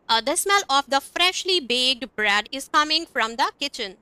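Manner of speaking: slow, careful example sentences; slow teacher model sentences; slow demo reading. Shown as a demonstration. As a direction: read it out slowly for the class. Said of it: "हम इस तरह से बोलेंगे".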